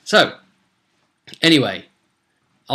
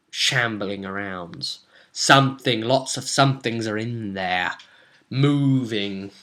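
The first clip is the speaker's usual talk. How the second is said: eerie scene setting. A narrator's reading. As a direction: stretch the words and leave pauses between them. Sets the eerie graveyard scene.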